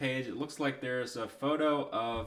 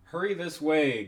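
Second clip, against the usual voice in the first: horror host; 5 dB louder than usual. Acted. Reading spooky host text aloud.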